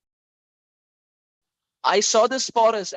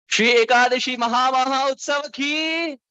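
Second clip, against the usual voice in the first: rousing devotional cry; festival call-out; 3 semitones higher than usual. Real, not acted. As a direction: call it out for the crowd to answer. Preacher calls out to the crowd.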